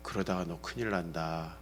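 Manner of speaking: low, very quiet threat; restrained angry warning. Retold or imitated. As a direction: imitate a father warning under his breath. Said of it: "화를 낼 때가 있어요".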